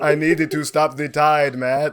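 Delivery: slow, loud put-on character voice; drawn-out mock-grave plea; Carveth. AI scammer pleading with Matt, hammed-up. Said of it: "They make an A I Carveth".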